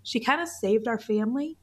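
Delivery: fighting back real tears as she speaks; soft, tearful catch in the throat; choking up. Real, not acted. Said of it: "I'm gonna try really hard not to cry".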